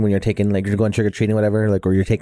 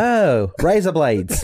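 fast Australian "raise up lights" blurred into "razor blades"; Australian accent; 5 semitones higher, much slower than usual. Shown as a demonstration. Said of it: "Say it faster".

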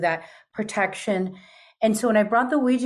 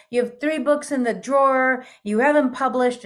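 put-on old Spaniard voice; 4 semitones higher than usual. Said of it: "speaking in what I call Shakespearean Spanish".

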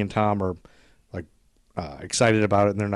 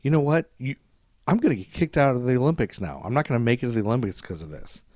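mildly raised, irritated retelling; pissy; 4 semitones higher, 4 dB louder than usual. Retold or imitated. Tom blaming the runner for his Olympics, pissy. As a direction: whine blame at her, imitated. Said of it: "all of a sudden gets all pissy".

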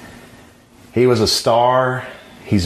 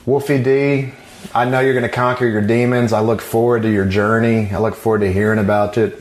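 wrestling promo. Shown as a demonstration. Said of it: "I'm trying to cut a promo now".

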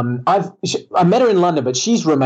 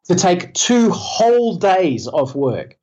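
slow, higher, self-mocking emphasis; sarcastic; 4 semitones higher than usual. Real, not acted. Guest mocks his short leave for his daughter's birth, sarcastic. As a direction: spell out the meagre gesture with heavy irony. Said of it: "underline the word gallant 'cause it's sarcastic".

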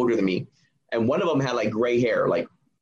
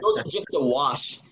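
laughing. Real, not acted. Laughing at his own joke.

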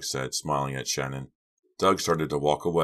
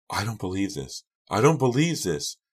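hysterical scream; 5 semitones higher than usual. Acted. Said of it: "Shannon was screaming hysterically".

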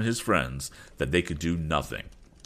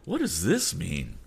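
slow, higher-pitched indignation; indignant; 5 semitones higher, slower than usual. Acted. Captain protesting his seizure, indignant cry. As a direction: demand an explanation, affronted and drawn out. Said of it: "cried Captain Weston indignantly".

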